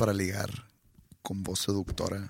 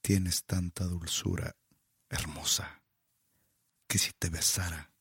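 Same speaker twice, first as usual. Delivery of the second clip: low seductive voice; 3 semitones lower than usual. Acted. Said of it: "Voz baja, pausado, suelta aire".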